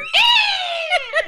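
high, loud imitated eagle cry; eagle screech. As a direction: screech like an eagle swooping round. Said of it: "I always heard like an eagle".

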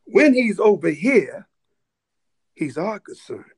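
put-on deliberate, measured African-accented voice. African soldier telling the minister's security who guards him, in African accent. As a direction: imitate an African man's voice, with weighty pauses. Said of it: "He said in his beautiful African voice".

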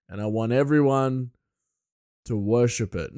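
put-on loud, slow proclamation in an American accent; King George, American. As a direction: play a grand ruler with an American accent. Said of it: "I don't know why King George is American".

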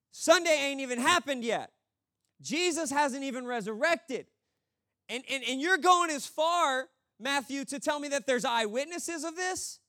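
high-pitched, stammering disbelief; mock incredulity. Preacher protesting Matthew's account to him, mock incredulous. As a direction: challenge it like you are scandalised.

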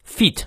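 "feet" with a drawn-out ee; long ee. Shown as a demonstration. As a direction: hold the ee in "feet" long and full. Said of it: "长一也念到位".

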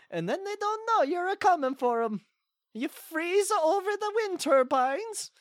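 hammy put-on Swedish accent; fake Swedish accent. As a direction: play a bad Swedish caller. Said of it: "this isn't a very good, uh, Swedish accent".

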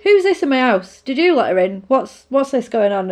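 mother angry at a stranger in her house; angry mum. Retold or imitated. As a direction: mum demanding answers, mildly riled. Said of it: "She's like".

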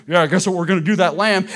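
a hint of a taunting big sibling, loud; teasing older sibling. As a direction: lightly play the sibling, loud and blunt. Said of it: "Older sibling looks at the little one and goes".

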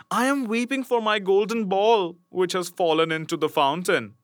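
a lightly voiced princess lamenting her ball; sad princess. Princess telling the frog her loss, mildly tearful. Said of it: "said she".

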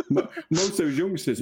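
high burst of laughter into speech; laughing. Real, not acted. Laughing at a friend's nineties reference, high laughter. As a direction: laugh through the words.

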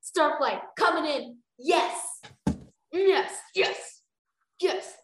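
high, loud yes cheer. Real, not acted. Reader cheering her favourite character, high and loud.

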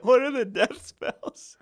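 hammed-up Asian accent; mock Asian accent. Asian accent Harry Potter bit.

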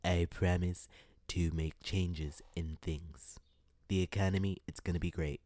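hint of a Trump stump-speech promise; Donald Trump voice. Mocking politicians to her viewers with a mild Trump impression. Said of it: "I'm gonna do my Donald Trump voice".

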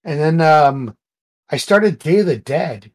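ordinary talk, nothing marked

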